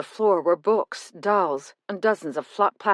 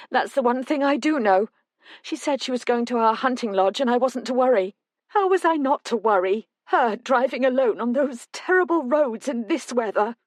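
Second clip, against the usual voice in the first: put-on raised, tearful older woman; a frightened mother spilling out her worry; a hint of a tearful mother; distressed mother; 6 semitones higher than usual. Mother describes Quinn leaving.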